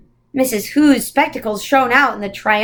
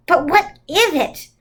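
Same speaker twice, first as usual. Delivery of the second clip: demanding; 6 semitones higher than usual. Acted. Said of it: "Charles demanded".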